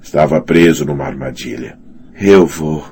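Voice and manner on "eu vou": strangled voice. Acted. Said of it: "numa voz apertada e seca".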